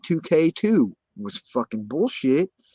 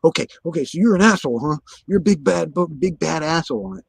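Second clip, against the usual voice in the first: imitated riled taunting; 5 semitones higher, faster than usual. Retelling how the cop went nuts at him, imitated taunting. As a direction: goad like a cop losing it. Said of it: "And he went nuts".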